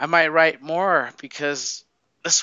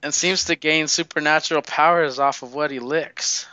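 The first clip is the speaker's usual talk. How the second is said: news reporter voice. Retold or imitated. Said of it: "news reporters are saying".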